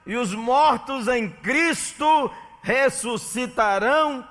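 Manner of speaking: high, loud, slow pulpit proclamation; a loud, solemn Bible reading that rises throughout; preaching scripture reading. Acted. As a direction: thunder the verses out slowly to the congregation.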